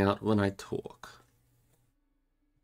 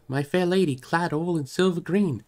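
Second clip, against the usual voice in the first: high, louder anguished plea; raised voice full of dismay; distressed crying out; 10 semitones higher, 5 dB louder than usual. Acted. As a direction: lament that they forgot to say goodbye. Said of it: "he cried".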